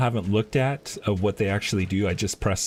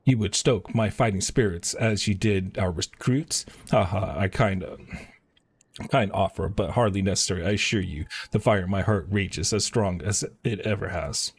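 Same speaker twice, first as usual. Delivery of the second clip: lightly voiced soldier, steady and proud; a hint of a rekindled warrior; resolute lieutenant. The lieutenant thanking the hero for rousing him, lightly voiced.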